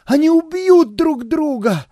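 high, loud panicked shout; alarmed cry. A narrator's reading. Dancer sees the fight, shouts in alarm. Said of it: "повелительно крикнула".

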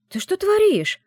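high, loud indignant exclamation; shocked, loud ты что творишь; indignant cry. A narrator's reading. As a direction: cry out in outrage at her friend. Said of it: "воскликнула возмущённо".

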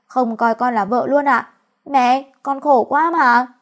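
put-on weepy whining to the mother-in-law; overplayed sob story, slowing at the end; fake tearful complaint. Wife complains to mother-in-law, hamming up tearful whining. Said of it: "Anh thấy tôi diễn sâu quá".

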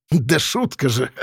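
slow, joking brush-off; lightly amused crook; chuckling. A narrator's reading. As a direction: toss it off with a hint of a chuckle. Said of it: "хохотнул Софрон".

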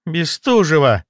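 drawn-out, high spiteful outburst; hissed. A narrator's reading. Jealous mistress naming her rival, spiteful, high and drawn out. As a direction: spit out the rival's name slowly. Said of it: "прошипела она".

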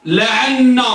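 لعن with a held, doubled n at the end; teacher's demo of لعن, geminated n; doubled noon. Shown as a demonstration. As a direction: lean on the n in لعن, la-ʿan-na. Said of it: "طبعًا بالنون مشددة".

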